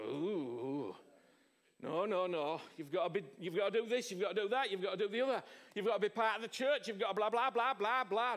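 a mock scolding religious voice; mocking religious people. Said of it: "Religious people don't like that".

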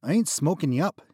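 dealer refusing. Acted.

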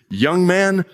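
mild mock shout of "Young man" from the pulpit; shouted call. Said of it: "he shouted as only a primitive Methodist could do".

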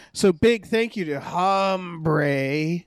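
put-on slow, rough grizzled old-timer voice; grizzled veteran. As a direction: drag it out like a worn-out veteran. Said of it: "That's my grizzled voice this, this week".

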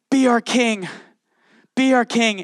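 high, urging chant of the crowd; pleading crowd. Retold or imitated. Preacher voicing the crowd, high and pleading. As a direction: people begging a leader to rule. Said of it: "they go".

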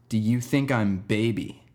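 slow, deliberate retold question; earnest repeated question. Kid repeats his question to the teacher in the hallway, slow and earnest. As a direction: ask it slowly, spacing out the words.

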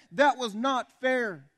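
high, loud, slow declaration; loud rant. Real, not acted. Preacher on Jesus dying for others' sins, loud rant. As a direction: hammer out each word from the pulpit. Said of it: "my rather loud rant".

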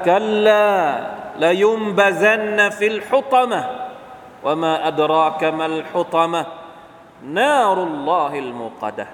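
slow, drawn-out chanted recitation; Quran recitation. Acted. Preacher reciting verses slowly to the audience.

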